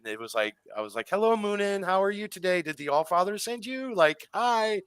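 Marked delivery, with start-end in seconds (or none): 1.1-4.8 very high, sing-song hello to a bird; high-pitched cooing greeting. Retold or imitated. Retelling how they greeted the raven, high-pitched cooing. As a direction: coo it up high as if to a beloved animal.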